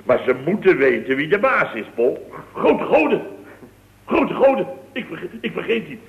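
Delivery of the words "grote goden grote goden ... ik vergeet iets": sudden alarm. Acted. Suddenly remembers something forgotten.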